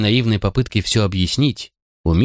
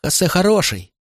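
put-on high, tearful child defending a friend; plaintive high child's voice; crying boy; 10 semitones higher than usual. A narrator's reading. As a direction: protest through tears. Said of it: "плакал мальчик".

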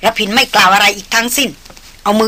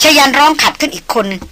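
plain reading voice

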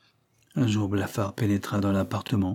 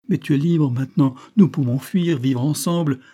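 raised, louder voice, urging him; urgent pleading; 5 semitones higher, 5 dB louder than usual. A narrator's reading. Mistress begging her lover to flee with her, urgently pleading. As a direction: plead for your life with urgency.

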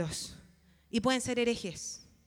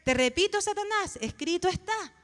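emphatic, mildly heated declaration; reprensión firme; 5 semitones higher, 3 dB louder than usual. Acted. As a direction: rebuke the devil, raised voice. Acts out rebuking Satan. (reprensión enérgica, con la voz elevada)

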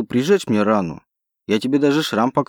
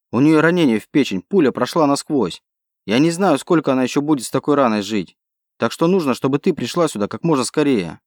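urgent, raised and pressing; 3 semitones higher than usual. Acted. Hero begging Alice to come fast, urgent. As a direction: hurry her along, raised and urgent.

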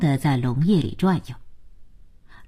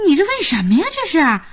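higher-pitched cry of dismay; 6 semitones higher than usual. A narrator's reading. Jiayin sees Liao Yu's rolled sleeves, crying out. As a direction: call it out in disbelief, pitch raised. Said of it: "看着廖宇挽着的袖子大叫".

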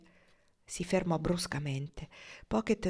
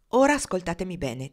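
louder, commanding tone; authoritative; 6 dB louder than usual. Acted. Pocket makes Marnie listen, authoritative and loud. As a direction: take charge of the talk. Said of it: "disse Pocket con tono autoritario".

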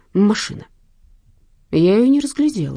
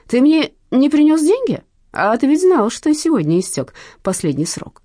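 louder, higher menacing voice; angry threat; 7 semitones higher, 5 dB louder than usual. Acted. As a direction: threaten him hard. Thug threatening the debtor.

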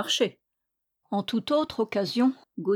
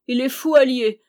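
sobbing wail; 4 semitones higher, 6 dB louder than usual. A narrator's reading. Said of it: "elle pleurait à sanglots".

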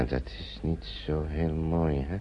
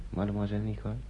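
quick hushed whisper; 7 dB quieter, much faster than usual. Acted. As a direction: lean in and whisper it fast. Conspiratorial hush about being careful. (snel gefluisterd)

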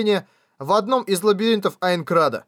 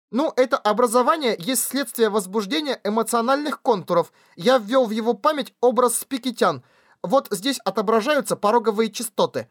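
high shrill slug voice; pitched up, piercing and thin; shrill squeaky voice; 5 semitones higher than usual. Acted. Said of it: "Визгливые голоса слизняков".

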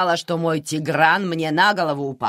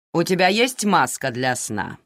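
ordinary delivery, nothing marked

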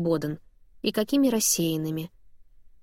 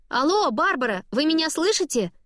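raising voice; 8 semitones higher than usual. A narrator's reading. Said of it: "Я повышаю голос".

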